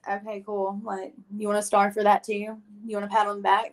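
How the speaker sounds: mildly sarcastic, mock-unimpressed needling; imitated snark. Ungrateful guest needling the man who helps her, mildly snarky. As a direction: act out your own snotty comeback, understated. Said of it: "I'm still being, like, such a little".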